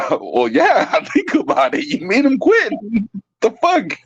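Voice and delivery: words squeezed out through laughter, voice leaping high; can't stop laughing at the story; laughing while talking. Real, not acted. Laughing back at his friend about the timid kid quitting.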